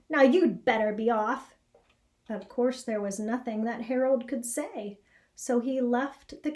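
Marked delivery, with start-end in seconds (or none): 0.1-1.6 grumpy pig warning. Acted. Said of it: "said a grimy old pig".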